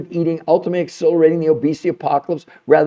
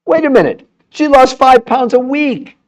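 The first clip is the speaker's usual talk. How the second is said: mock disbelief; 7 semitones higher, 5 dB louder than usual. Mocking a diet claim.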